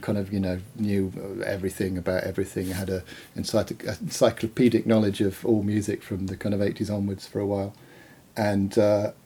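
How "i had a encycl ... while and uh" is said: talking around a sip of coffee; words half in the cup; drinking coffee. Real, not acted. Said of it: "sorry, I'm drinking coffee".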